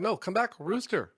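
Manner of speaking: hammed-up plea for the rooster to come back; mock pleading call. Calling the fleeing rooster back, mock pleading. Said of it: "I'd be like".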